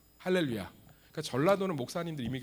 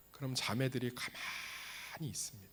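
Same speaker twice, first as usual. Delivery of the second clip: hushed whisper; 7 dB quieter than usual. Acted. Dramatic whispered aside.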